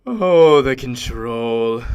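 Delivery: loud "Oh" sinking into slow relish; savouring power. Acted. Savours memory of killing.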